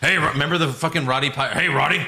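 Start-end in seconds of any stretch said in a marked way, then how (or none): 1.6-2.1 mock announcer. Mock announcer addressing the crowd.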